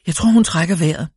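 moaning. A narrator's reading. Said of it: "stønnede den ene af kvinderne".

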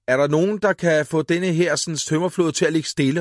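loud, high frightened call; boy shouting. A narrator's reading. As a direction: yell for help from the wobbly raft. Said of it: "råbte Karl".

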